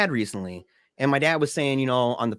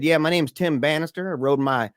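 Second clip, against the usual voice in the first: impression of dad on a game show; 2 semitones higher than usual. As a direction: do your dad on Press Your Luck in 1984, eager and hammed-up. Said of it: "let me try my best".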